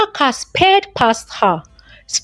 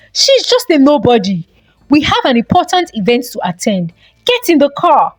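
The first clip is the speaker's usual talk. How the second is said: ordering; 3 semitones higher than usual. Acted. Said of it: "he ordered".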